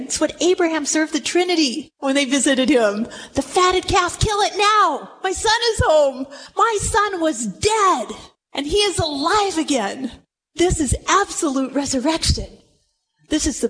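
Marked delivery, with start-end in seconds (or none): 3.3-6.3 father calling out his joy, a little higher; a happy father ordering the feast; joyful father. Acted. Father calling to his servants, joyful and raised. 6.6-10.1 joyful exclaim. Acted. Father rejoices over son.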